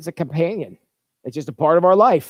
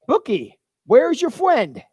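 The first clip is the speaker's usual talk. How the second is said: dad asking; 7 semitones higher, slower than usual. Retold or imitated. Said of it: "I strolled over and asked".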